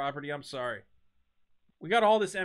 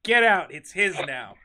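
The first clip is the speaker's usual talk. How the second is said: mock cop shout; 6 dB louder than usual. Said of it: "They go".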